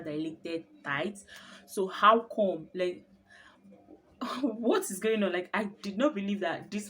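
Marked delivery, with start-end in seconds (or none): 1.7-5.3 loud, slow, disbelieving; indignant protest. Retold or imitated. To the nurse who says she isn't dilating, indignant and loud. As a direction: demand an answer, stretching it out.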